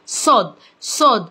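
"صاد" with a short rounded 'o', like sod; short vowel sound. Shown as a demonstration. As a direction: model "صاد" twice, separately, with the short 'o'. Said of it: "بتتنطق زي الشورت فاول".

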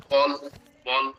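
put-on slow childish voice asking for a ball. Teacher imitating a toddler asking for a ball, slow and childish. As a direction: say it like a small toddler wanting the ball. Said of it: "এভাবে বলে".

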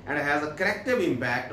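very slow, word by word English reading; slow dictation. Shown as a demonstration. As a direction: read it out slowly for the class to follow. Reads English text slowly. (धीमी आवाज़ में पढ़ना)

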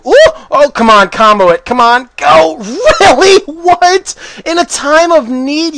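loud high cheering then disbelief; excited yelling. Real, not acted. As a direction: shout at the screen, hyped. Cheering then shocked at a miss.

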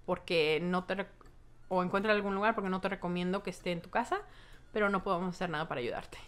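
lightly voiced cop, leaning in to share a secret; confiding policeman. Police officer quietly admits the roommate is unwell, lightly voiced. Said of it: "voltea y me dice".

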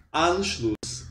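"Anschluss" with heavy stress on the first syllable AN, slow. Shown as a demonstration. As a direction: punch the AN of "Anschluss". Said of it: "você mete a tônica dela".

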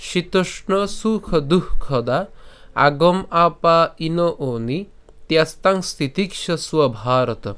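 slow, measured Sanskrit verse recitation; shloka recitation. Shown as a demonstration. Teacher presenting today's shloka to learners, slow recitation. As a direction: recite each word slowly and distinctly. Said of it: "আজকের শ্লোকটি হলো".

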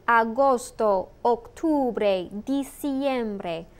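open, full vowels in "Agosto", "octubre", "diciembre", each said slowly and clearly; careful clear vowels. Shown as a demonstration. Teacher drawing attention to the vowels in "Agosto", "octubre", "diciembre", careful and clear. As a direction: model the Spanish vowels in "Agosto", "octubre", "diciembre" cleanly for the class. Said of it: "Notice the vowel sounds".

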